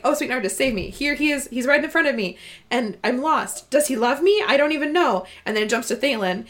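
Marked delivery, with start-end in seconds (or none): 0.0-5.2 lovestruck Cerulia. Retold or imitated. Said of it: "She's like".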